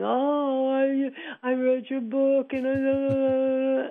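crying, high, slow, halting words, long drawn-out "oh". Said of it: "crying and saying".

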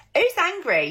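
very high-pitched, loud Essex accent. Showing off her accents on one simple question, in an Essex accent.

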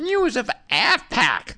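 falsetto, very slowly drawn out and rising. Introducing the next news segment on Le Show, the host slips into falsetto. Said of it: "I went falsetto too soon there".

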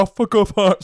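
put-on raging, furious yell, high and very loud. Retelling how Calvin reacted during the game: imitating Calvin shouting angrily. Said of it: "he was shouting".

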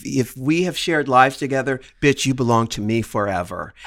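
put-on grave, earnest, very low, dead serious tone. Joking about being a very possessive person: mock serious tone. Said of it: "they could hear the seriousness in my voice".

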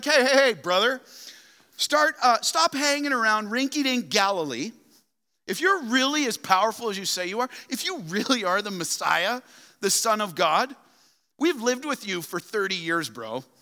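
acted-out, jeering, mocking, high taunting voice. Retelling how the brothers taunted him: imitating mocking brothers. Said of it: "they start mocking him. They're like".

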